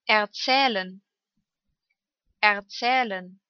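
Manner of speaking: long ä in "Erzählen". Shown as a demonstration. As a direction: hold the ä in the middle of "Erzählen". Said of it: "Lang ausgesprochen".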